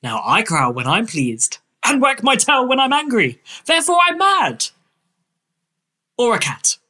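airy, whimsical Victorian author; dreamy storybook eccentric, slightly lifted; Lewis Carroll. Acted. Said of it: "that, uh, performance".

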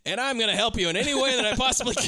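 acted-out emphatic promise; emphatic offer. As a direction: pitch it up, pledging your help. Quoting the friend's eager offer.

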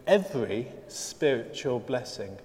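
EVERY drawn out and set apart; stress on EVERY. Shown as a demonstration. Preacher reading Paul's verse to the congregation, stress on EVERY. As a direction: lean on "every", measured pace. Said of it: "Notice the emphasis on the word every".

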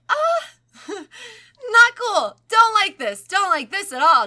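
high, loud panicky mom; freaked-out mom. Retold or imitated. Mother startled by the doll, high, loud and panicky. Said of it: "And she's like".

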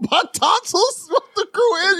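high, slow, dopey mimicry; mocking naive voice. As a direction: play him as a gullible kid. Mocking friend's naive line.

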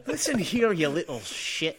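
mock wrestler threat, high with a laugh; a playful Undertaker growl that cracks up; Undertaker impression. Cohost jokes in a wrestler voice while laughing. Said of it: "The Undertaker".

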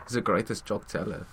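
mock German accent; Hitler. Answering co-host about the dictator, mock German accent. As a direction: put on a campy German accent. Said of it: "It's probably like this".

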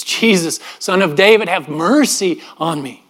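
retold plea, drawn out at the end; insistent but restrained cry for mercy. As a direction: plead harder, slowing on the last words. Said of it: "he cries out all the more".

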